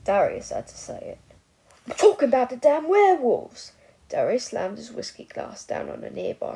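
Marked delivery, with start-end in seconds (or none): 1.9-3.7 much louder, higher angry outburst; furious shout. A narrator's reading. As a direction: bellow the word werewolves. Drunk old man explodes.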